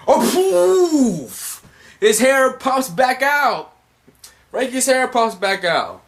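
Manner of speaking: high, loud cartoon excitement; hyped-up exclamation. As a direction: announce the pop in a thrilled, high yell. Acts out hair popping back out.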